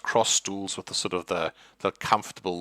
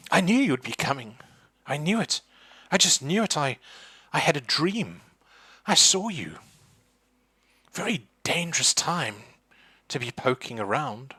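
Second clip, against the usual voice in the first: put-on much higher, knowing old woman's voice; mystic old lady; 7 semitones higher than usual. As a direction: foretell it like a fussy psychic. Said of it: "she's like".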